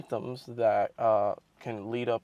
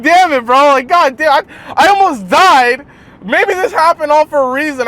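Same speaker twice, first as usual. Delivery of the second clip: loud frustrated rant; 14 semitones higher, 14 dB louder than usual. Retold or imitated. Venting after being rejected.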